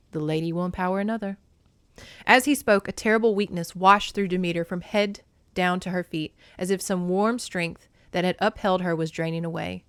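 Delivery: steady read-aloud narration voice; story narration. A narrator's reading. Booktuber reading a passage, narration voice. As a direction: read the novel's scene to viewers. Reads a mythology novel aloud.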